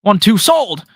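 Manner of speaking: loud, high rapid auctioneer call. Retold or imitated. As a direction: rattle it off like an auctioneer. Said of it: "Nick sounded like an auctioneer".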